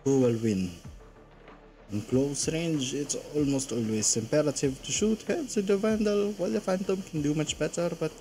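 deliberate explainer delivery; reading aloud. Acted. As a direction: read it out like a game guide. Reads out weapon comparison.

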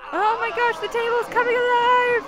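high, loud and amazed; amazed cry. Real, not acted. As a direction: shout it out in wide-eyed wonder. Table comes alive in game.

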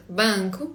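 "Банку" with a nasal n before the k; nasal sound. Shown as a demonstration. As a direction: send the first syllable of "Банку" through the nose. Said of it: "такий носовий звук".

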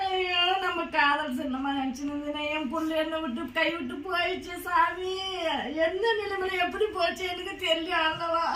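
sobbing lament. Acted. Wife sobbing over lost child.

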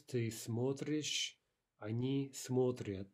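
смотришь and смотрят slowly, stressed on смо-; stress shifted back. Shown as a demonstration. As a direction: lean on the first syllable of смотришь, смотрят. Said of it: "Now shifting stress".

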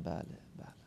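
soft, voiceless bale bale; mock whisper to the taxi driver; whispered yes. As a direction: breathe the words under your breath. Retold taxi ride, whispered aside.

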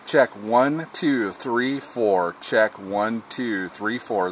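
counting through six dB of radio compression; squashed, punchy radio check; compressed ham radio signal; compressed mic. Shown as a demonstration. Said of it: "here we are with six decibels of compression".

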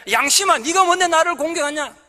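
loud, high challenge to conscience; defiant shout. Shown as a demonstration. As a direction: stress 네가 and throw it back hard. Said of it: "그렇게 외치십시오".

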